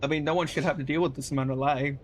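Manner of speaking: throat catching on a sip; choking on drink. Real, not acted. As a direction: talk while choking on a drink. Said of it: "oh, I'm choking on drink".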